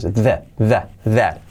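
tongue between teeth, vocal cords buzzing on "the" and "that"; voiced TH. Shown as a demonstration. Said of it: "la lengua entre los dientes".

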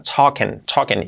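"talking" said like "token", G all but dropped; "talking" with the I like a Spanish E; nearly silent G. Shown as a demonstration. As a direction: end "talking" on a soft "en". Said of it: "la I como una E, y la G casi no se pronuncia".

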